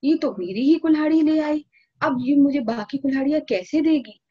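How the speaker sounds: a hammed-up shocked woodcutter who sees his plan failing; stunned dismay. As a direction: blurt it out, caught off guard and panicking. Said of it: "अब तो सोहन हक्का बक्का".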